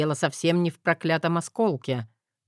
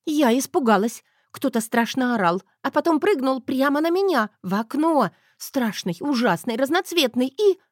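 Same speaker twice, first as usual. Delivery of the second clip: higher, frightened tearful wife's voice; sobbing young wife; 9 semitones higher, 3 dB louder than usual. A narrator's reading. Wife sobbing to her husband about the monster, high and frightened. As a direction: blurt it out scared and near tears. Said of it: "всхлипнула моя жена".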